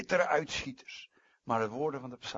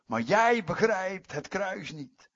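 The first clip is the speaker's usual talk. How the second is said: loud, high, slow rebuke of Satan; defiant raised preaching voice; forceful rebuke; 6 semitones higher, 4 dB louder, slower than usual. Acted. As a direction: hit JIJ high and hard. Acted rebuke of Satan, first take.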